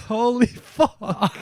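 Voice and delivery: high, slow Scottish-cum-Manchester exclamation; botched Scottish accent. Acted. Friend as animal seeing the blaze, high botched Scottish accent. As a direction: stretch it out in a badly faked Scottish accent. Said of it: "Was that a Manchester accent?".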